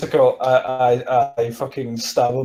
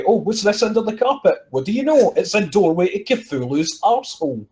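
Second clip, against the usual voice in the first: higher, hammed-up surprise; mock discovery; 4 semitones higher than usual. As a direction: feign astonishment at what turns up. Acts out pretend discovery in the house.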